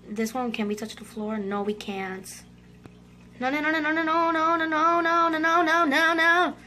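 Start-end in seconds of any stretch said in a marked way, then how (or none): 3.4-6.5 rapid chain of no's, rising as it goes; panicked protest. Real, not acted. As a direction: panic building on every no. Panicking during a game round.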